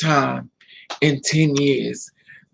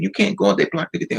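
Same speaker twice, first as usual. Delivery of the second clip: mildly urgent, higher-pitched protest; retold urgent warning; 7 semitones higher, faster than usual. Friends warning her off the blocked tunnel, retold urgent warning. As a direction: imitate alarmed friends, pitched up.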